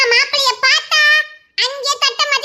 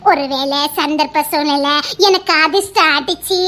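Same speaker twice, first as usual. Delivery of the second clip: lower, slow and giggling over எனக்கு; bashful dreamy musing with a giggle; shy daydreaming; 8 semitones lower than usual. Acted. Girl dreaming aloud of marrying uncle, shy and giggly. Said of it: "நினைச்சு பார்த்தாலே எனக்கு வெக்கமா வருது".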